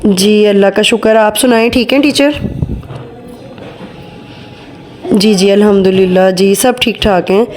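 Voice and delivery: mock-polite call, voice carrying to the next room; fake phone call. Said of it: "झूठी मूठी की call start करती हूँ".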